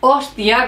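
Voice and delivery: "hostia" leaning on the first O; stress on the O. Shown as a demonstration. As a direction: punch the O opening "hostia". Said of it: "con énfasis en la O". («hostia» con énfasis en la O)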